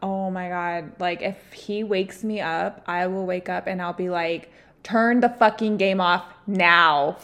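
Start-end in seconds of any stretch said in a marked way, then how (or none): 4.8-7.2 angry order. Retold or imitated. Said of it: "I get so mad".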